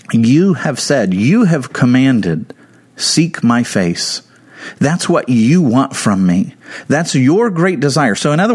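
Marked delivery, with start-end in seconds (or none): 0.1-4.2 slow solemn quote. Acted. Slow quoting of God's command.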